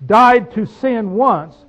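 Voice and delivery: died to sin once, drawn out slowly; solemn slow verse; slow solemn reading. Shown as a demonstration.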